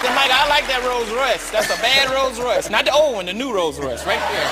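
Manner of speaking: lightly voiced eager begging; hammed-up wheedling for the car; mock greedy ask. Retold begging for Rolls Royce.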